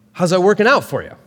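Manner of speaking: a hint of Doctor Phil, quick and punchy; imitating Doctor Phil. Preacher quoting Paul as Doctor Phil, light mock. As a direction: lightly mimic the TV host's taunt. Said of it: "his best Doctor Phil voice".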